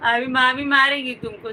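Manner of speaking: ordinary delivery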